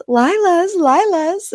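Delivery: high, insistent repetition; imitated exasperated husband; frustrated repeat. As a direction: repeat the word as if it explains everything. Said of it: "getting so frustrated".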